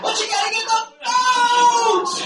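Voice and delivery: rally the crowd; shout. Real, not acted.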